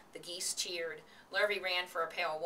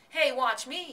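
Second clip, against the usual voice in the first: high, loud showing-off yell; 8 semitones higher, 9 dB louder, slower than usual. A narrator's reading. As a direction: shout for everyone's attention. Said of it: "yelled Avery".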